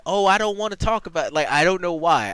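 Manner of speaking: high, loud southern country twang; country accent. Shown as a demonstration. Amiri refusing to talk, Southern country accent. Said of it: "she would have, like, a".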